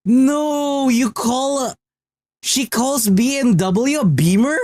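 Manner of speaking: real playful horror at the nickname; mock outrage. Real, not acted.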